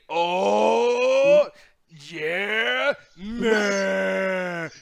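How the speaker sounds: high hyped yelling commentator; angry video game nerd. Retold or imitated. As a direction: ham up an overexcited gamer's shout. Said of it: "he sounds like the angry video game nerd".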